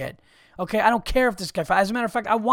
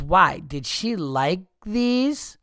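lightly mimicked dopey kid, drawn out; mocked shop kid; 2 semitones higher, much slower than usual. Kid questioning a customer about the shoes, slow mocking imitation. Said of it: "she was like this fucking, like, kid".

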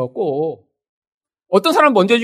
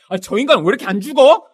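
louder mock grumble about a spouse; exasperated complaint; 2 semitones higher, 6 dB louder than usual. Resentful spouse grumbling about the other, exasperated. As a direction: act out a fed-up spouse.

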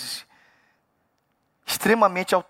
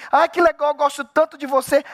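higher-pitched mock gushing; insincere flattery; 6 semitones higher than usual. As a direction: put on sweet small talk, higher than usual. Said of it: "só pra dizer assim".

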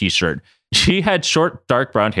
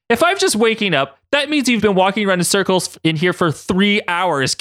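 crying out; 10 semitones higher than usual. Acted. Katie protests walking in circles for three hours, crying out. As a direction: cry out in high-pitched disbelief. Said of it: "Katie cried out".

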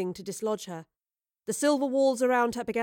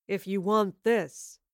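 menacing villain; slower than usual. A narrator's reading. Villain Wayland voice.

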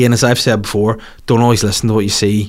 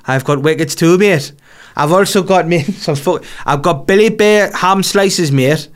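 Gazza impression; 6 semitones higher than usual. Gazza voiced in a story.

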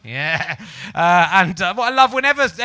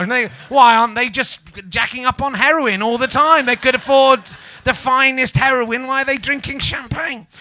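mock outrage; 4 semitones higher, 6 dB louder than usual.

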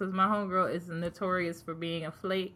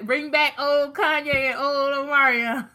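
laughing; 5 semitones higher, 7 dB louder than usual. Real, not acted. Laughing plea to bring back.

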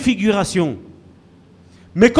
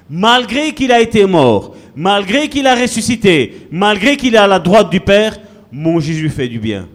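fervent preaching; 3 semitones higher than usual. Acted. Preaching at full force.

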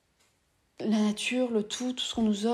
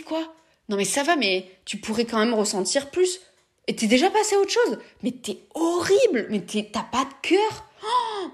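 mock outraged reproach; 2 semitones higher than usual. Reprochant à un neurotypique son manque d'émotion, ton faussement outré. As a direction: pile on the fake indignation, voice climbing. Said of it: "d'entendre un discours comme ça".

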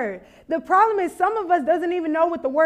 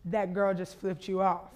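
hushed warning; 8 semitones lower, 9 dB quieter than usual. Retold or imitated. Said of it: "She goes".

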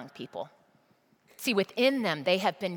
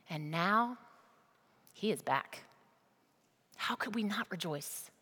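tender father. Acted. Father gently answers older son.

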